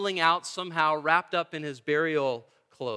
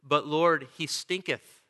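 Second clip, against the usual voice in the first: mock King James reading. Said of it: "I love the old King James Version because Martha says there".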